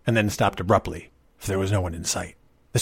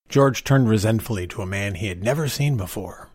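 usual speaking voice

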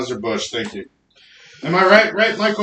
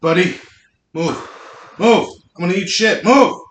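loud, high, urgent yelling; shouting move; 8 semitones higher, 5 dB louder than usual. Real, not acted. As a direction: yell it to get him out of the way. Yelling at pet on stairs.

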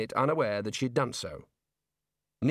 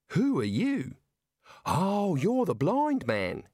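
put-on high, bright young Aussie woman, slow on the blind man; Neilette's voice; 6 semitones higher, much slower than usual. Young woman to Rincewind, high and drawn out. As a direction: voice a young woman climbing out of a trunk.

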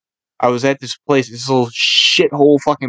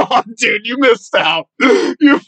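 high, gleeful teasing through laughter; laughing tease; 8 semitones higher than usual. Real, not acted. Teasing friend about the tingling nut, laughing. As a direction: crack up while ribbing a friend.

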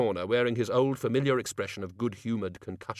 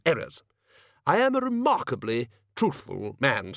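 a touch of pompous self-defence; lightly played blustering senior wizard; slightly raised, insistent justification; lightly voiced Ridcully; 4 semitones higher than usual.

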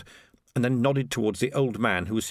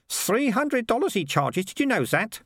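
high, slow reveal of the price; gossiping watchman; 12 semitones higher, slower than usual. Acted. Watchman tells sergeant the piper's fee, high and slow. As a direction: drop the figure slowly, pitched high.

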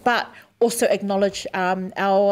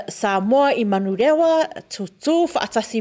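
Samoan names said the Samoan way; samoan accent. Real, not acted. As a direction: native Samoan pronunciation of place names. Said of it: "She said it a lot better than I did".

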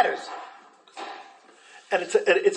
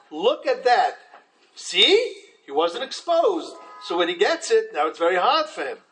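smug. Retold or imitated. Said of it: "we play the role of the guy".

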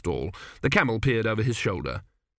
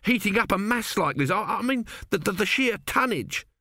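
higher, stammering workman amazed by the stone; a higher voice, tripping over words in wonder; nervous builder voice, lightly raised; excited brother Pataclusp; 9 semitones higher than usual. Acted. 2B stammers about the heat.

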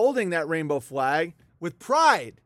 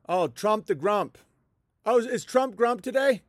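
infantilizing taunt; 2 semitones higher than usual. Shown as a demonstration. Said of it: "emasculated him and infantilized him".

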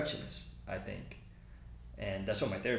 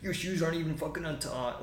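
scolding sergeant; 6 semitones higher than usual. Retold or imitated. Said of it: "going off on me about my uniform".

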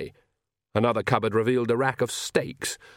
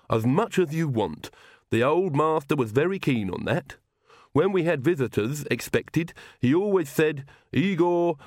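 higher, lilting lisp of a loyal retainer; lisping servant Igor, fond; 4 semitones higher than usual. Acted. Igor praises his old master to the witches, fond lisp. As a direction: lisp fondly, with swooping pitch.

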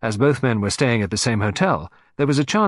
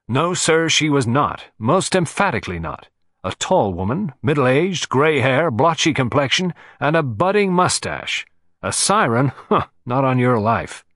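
blustery and noisy; 3 semitones higher than usual. Acted. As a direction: bluster at the detective, pushy and dismissive. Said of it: "He was blustery and noisy".

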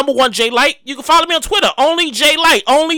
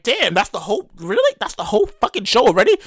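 low, softer deflated disbelief; mock letdown; 6 semitones lower, 4 dB quieter than usual. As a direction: drop down from the hype, let down. Acts letdown when show ends.

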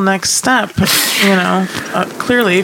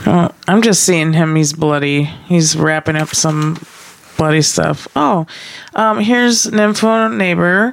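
narrator voice. Pretend. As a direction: narrate it like a nature film. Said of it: "narrate this in her best narrator voice".

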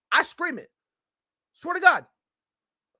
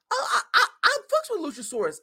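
laughing; 10 semitones higher than usual. Real, not acted. Laughs while naming favorite.

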